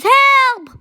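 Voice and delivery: loud call for help; cry for help. Acted. Chicken calling out for help, loud. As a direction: shout help like a scared chicken.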